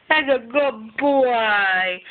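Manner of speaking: very slow, drawn-out praise; talking to a dog. Real, not acted. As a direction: draw out every word to the dog.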